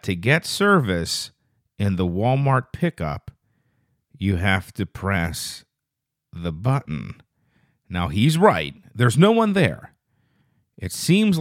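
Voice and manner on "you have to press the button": put-on slow, low, quiet monotone of a zoned-out kid; creepy kid's cryptic warning, drawn out; vacant troll kid. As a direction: intone it slowly and softly, staring into space. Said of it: "just lets people know".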